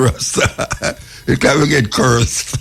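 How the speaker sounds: laughing through the words, amused. Real, not acted. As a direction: chuckle while saying it, half in disbelief. Host laughing at caller's words.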